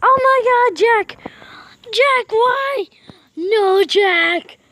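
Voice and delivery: high, loud shocked cry; shocked outcry. Real, not acted. Shocked at what Jack did, loud outcry. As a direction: cry out in disbelief.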